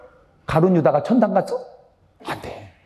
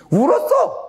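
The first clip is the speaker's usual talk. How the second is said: laughing mock; 13 semitones higher than usual. Mocking Peter's weeping.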